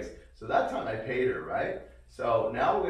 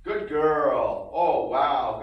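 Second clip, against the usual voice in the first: excited praise; 3 semitones higher, 9 dB louder, much slower than usual. Shown as a demonstration. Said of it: "Again, very dynamic voice".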